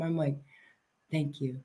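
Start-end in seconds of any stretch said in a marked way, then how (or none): 1.1-1.6 small, soft, lower mock-starstruck thanks; awkward, starstruck. Fan re-enacting meeting the guitarist, awkward and starstruck. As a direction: imitate yourself tongue-tied before an idol, barely audible. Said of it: "I'm so freaking awkward".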